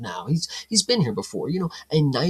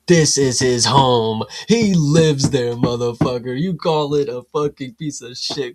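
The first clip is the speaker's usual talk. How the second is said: heated rant; 4 dB louder than usual. Real, not acted. Ranting about the insult to his home.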